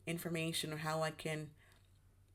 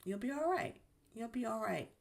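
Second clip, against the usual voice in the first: soothing self-talk; 3 semitones higher than usual. Retold or imitated. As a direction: talk yourself down kindly, like comforting a friend. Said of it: "And so I tell myself that".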